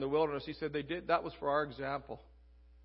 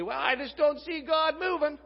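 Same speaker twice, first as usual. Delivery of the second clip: higher-pitched mock protest; mock complaint; 10 semitones higher, 4 dB louder than usual. Preacher voices believers excusing themselves, mock complaint.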